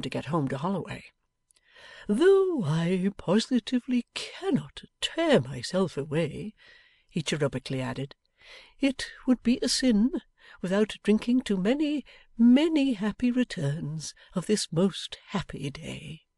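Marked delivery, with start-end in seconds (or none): 2.1-6.5 doting Pa answering his daughter; fond father. Acted. Pa takes leave. 8.8-16.3 a doting father raises his glass; cheerful father toasting. Acted. Pa proposes a toast.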